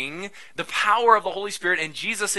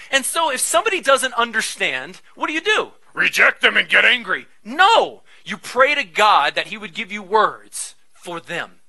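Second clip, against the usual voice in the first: emphatic preaching; 4 semitones higher, 8 dB louder than usual. Acted. Rhetorical question, emphatic answer.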